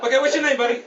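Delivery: loud, high wise-guy demand; cocky mobster-style clerk; Joe Pesci. Acted. Kiosk man asking a driver's name, cocky. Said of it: "kind of the cocky Joe Pesci guy".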